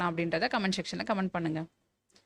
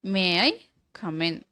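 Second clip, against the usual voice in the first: slow polite model; 3 dB louder, much slower than usual. Shown as a demonstration. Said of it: "கொஞ்சம் பொலைட்டான வே".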